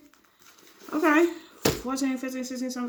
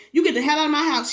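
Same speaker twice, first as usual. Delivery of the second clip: angry demand; 3 semitones higher, 3 dB louder, faster than usual. Acted. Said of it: "she said, pulling at his arm".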